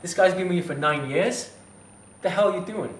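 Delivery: incredulous retort. Retold or imitated. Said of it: "That's the first thing I thought".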